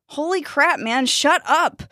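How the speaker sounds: high, drawn-out shut-down; exasperated. A narrator's reading. Dustin silencing Jack's worries, exasperated.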